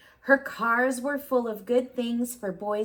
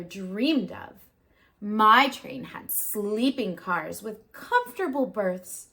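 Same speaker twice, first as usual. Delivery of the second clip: snooty engine; 3 dB louder than usual. Acted. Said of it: "the shiny new engine snorted".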